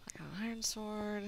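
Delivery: hushed whisper. Real, not acted. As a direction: whisper it under the breath. Whispering while gaming.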